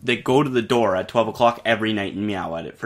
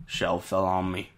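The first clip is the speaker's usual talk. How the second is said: put-on southern accent; 5 semitones lower, 8 dB quieter than usual. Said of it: "he's got a southern accent".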